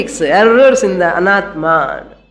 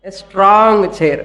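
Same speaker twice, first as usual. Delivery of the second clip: slow deliberate; much slower than usual. Shown as a demonstration. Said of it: "you have to sit on what?".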